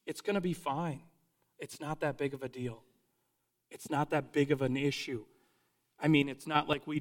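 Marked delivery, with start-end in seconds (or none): 0.0-5.2 dismissive shrug. Retold or imitated. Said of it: "and you're like".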